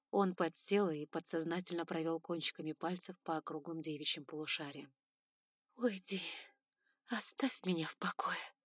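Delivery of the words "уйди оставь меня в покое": weak, whispered plea; weak moan.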